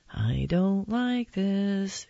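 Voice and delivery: slow, measured displeasure; uneasy impatience. Acted. Mom kept waiting at the barber's, slow and displeased. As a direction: draw it out slowly with misgiving.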